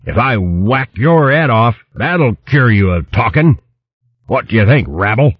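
blustering hedgehog baron in a fury; furious shouting. A narrator's reading. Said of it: "shouting in a voice which caused the leaves".

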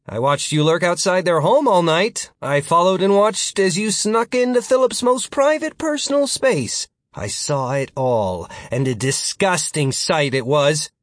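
high, rising accusation; Martin, accusing. Acted. Martin confronts future Philip about his stalking, accusing.

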